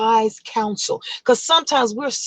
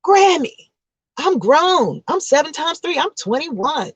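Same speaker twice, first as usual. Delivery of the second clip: put-on higher, insistent young woman; high indignant granddaughter voice; defiant granddaughter; 5 semitones higher than usual. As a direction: protest like a grown girl to grandma.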